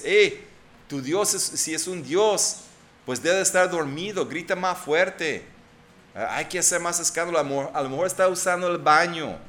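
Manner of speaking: mocking taunt. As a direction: jeer at the Baal prophets, teasing them. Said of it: "estaba burlándose de ellos".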